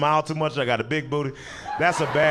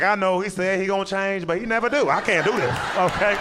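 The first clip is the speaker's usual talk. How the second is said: mock abused partner; 5 semitones higher than usual. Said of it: "I was like".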